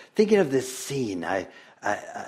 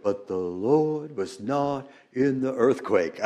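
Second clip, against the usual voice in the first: put-on children's refrain.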